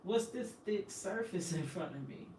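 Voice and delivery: put-on high-pitched voice of a baby's thoughts; puzzled baby. Baby at the visiting glass wanting daddy, puzzled high voice. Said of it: "looking around puzzled".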